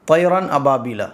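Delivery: quick, run-together recitation; rushed reading. Shown as a demonstration. Teacher showing a student's hurried wrong recitation. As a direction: rattle it off too fast. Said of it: "ایسے جلدی نہیں پڑھو گے".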